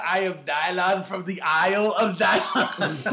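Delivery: lightly hammed, slow quote while laughing; imitating a grand self-introduction; hammy stage actor. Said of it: "when you said".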